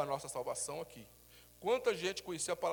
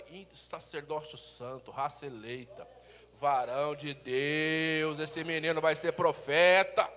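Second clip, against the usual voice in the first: solemn blessing; 6 dB louder, much slower than usual. Shown as a demonstration. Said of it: "fala assim".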